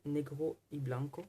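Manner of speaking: slow, self-mocking attempt at a Spanish accent; bad Spanish accent. Shown as a demonstration. Reading the Spanish card title to viewers in a deliberately bad Spanish accent.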